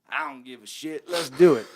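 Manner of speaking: laughing through the words, loud on the end; a delighted, laughing Buddy saying yes; laughed-out loud yes; laughing quote. Retold or imitated. Buddy agrees, narrator laughing.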